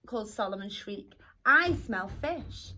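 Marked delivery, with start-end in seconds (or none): 1.4-2.7 seagull voice. Acted. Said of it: "squawked the seagull".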